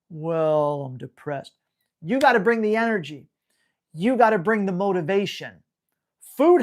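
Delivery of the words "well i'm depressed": mock depressed dog. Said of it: "But if you're like".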